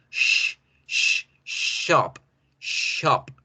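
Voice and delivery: long "sh", then "shop" with it held; hush, then stretch the sh in "shop"; thick SH. Shown as a demonstration. Teacher shows air touching the palate, long SH. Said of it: "toque el paladar".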